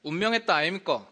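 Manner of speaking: quick Gyeongsang dialect line. Shown as a demonstration. Pastor demonstrating Gyeongsang dialect for the congregation, brisk Gyeongsang. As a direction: say it like a Gyeongsang speaker. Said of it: "경상도로는".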